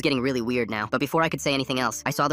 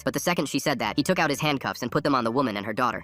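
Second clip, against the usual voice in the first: usual speaking voice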